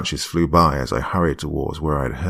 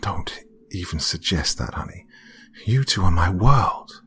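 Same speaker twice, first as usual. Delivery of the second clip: tearful. Acted. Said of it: "cried a bit".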